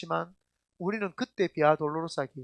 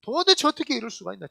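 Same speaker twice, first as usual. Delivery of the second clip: indignant question, higher at first; a touch of outraged disbelief; mild exasperation; 4 semitones higher, 4 dB louder than usual. Acted. Pastor voices his outrage at the crowd, mildly exasperated. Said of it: "제가 분통이 다 터집니다".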